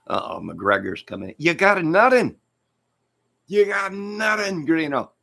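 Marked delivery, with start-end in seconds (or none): 1.4-5.1 mock taunting. Comic tells jailed Greeno he has nothing, mock jeering. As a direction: rub it in with a squealing voice.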